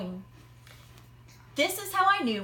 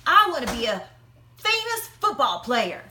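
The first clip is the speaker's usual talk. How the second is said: louder, eager call from the crowd; 5 dB louder than usual. Acted. Matt calling out to the magician, loud and eager. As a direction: sing it out to the magician. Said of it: "He called out".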